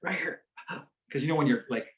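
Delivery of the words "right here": slow unvoiced quiet child's whisper; imitating the girl. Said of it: "She said".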